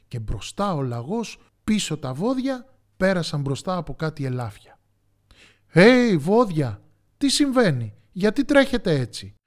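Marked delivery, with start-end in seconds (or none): 5.7-9.4 high, loud animated call; puzzled storybook shout. A narrator's reading. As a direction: hail a running crowd urgently. Deer call to running oxen.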